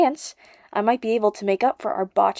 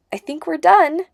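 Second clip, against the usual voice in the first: with a smile; 9 semitones higher, 6 dB louder than usual. Acted. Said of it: "she said with a smile".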